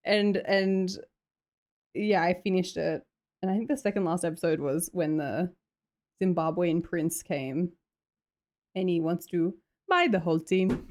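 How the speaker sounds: put-on Nigerian accent. Streamer recounting Ted Lasso episode, mock Nigerian accent. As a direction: keep up a deliberate Nigerian accent. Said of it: "Nigerian accent was not my".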